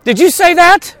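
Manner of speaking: high, tense hissed question, pitched well up; startled burglar hisses at the parrot. Retold or imitated. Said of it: "he hissed at the parrot".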